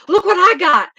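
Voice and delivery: put-on high, loud, gleeful kid voice springing a surprise; teasing little brother. Little brother thrusting a snake at mother, high gleeful shout. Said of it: "He goes".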